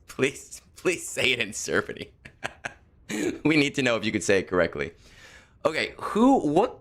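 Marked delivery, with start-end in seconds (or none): 0.1-4.9 laughing mock plea. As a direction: pretend begging through chuckles. Laughing, pretend viewer begging for Serbian.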